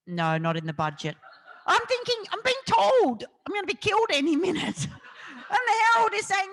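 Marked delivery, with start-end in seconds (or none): 1.7-6.5 much higher and louder, laughing through it; incredulous laughing outburst; laughing disbelief. Real, not acted. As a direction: laugh at the absurdity. Disbelief at death threat.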